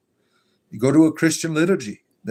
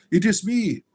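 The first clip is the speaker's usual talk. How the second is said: goat puppet voice; 6 semitones higher than usual. Acted. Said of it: "demon goat hand".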